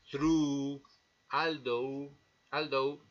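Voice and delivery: "through" and "although" with a silent gh; English gh words. Shown as a demonstration. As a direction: say "although" as aldo. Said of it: "el graciosísimo grupo U G H o G H".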